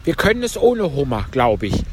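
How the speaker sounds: high, plaintive turtle voice; Mock Turtle. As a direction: pitch it up for the tearful turtle. (hohe Stimme der falschen Schildkröte)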